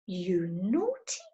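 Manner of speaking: whispered. Acted. Silky scolds softly.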